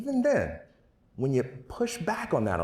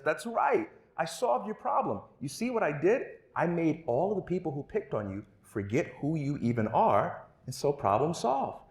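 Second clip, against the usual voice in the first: smug superhero; 6 semitones higher than usual. Acted. Superhero voiced proudly.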